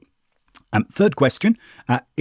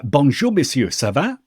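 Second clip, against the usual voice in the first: bad French accent; 6 semitones higher, 3 dB louder than usual. Shown as a demonstration. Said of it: "really bad French".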